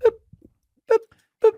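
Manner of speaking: short little checkout boops; quick isolated boop noises; imitated scanner boop. Shown as a demonstration. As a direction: mimic a self-checkout scanner, one blip at a time. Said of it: "I just go like this".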